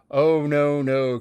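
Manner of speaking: sudden loud protest; cried out. A narrator's reading. Emma crying out against hearing their thoughts, loud. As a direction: cry out to cut him off. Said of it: "cried Emma".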